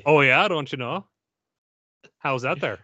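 mock Minnesota small talk; reply like a folksy North Dakotan; hammed-up Fargo accent; Upper Midwest accent. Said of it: "North Dakota, Minnesota, and Southern Canada".

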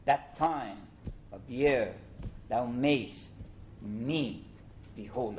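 every second syllable hammered, slow and falling; exaggerated iambic beat. Shown as a demonstration. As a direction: chant it like a metronome. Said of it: "you shouldn't recite it like that, but I'm just emphasizing".

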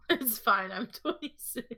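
lightly mocking repeat; mocking echo. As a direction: echo the line back high and teasing. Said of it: "repeats friend's line".

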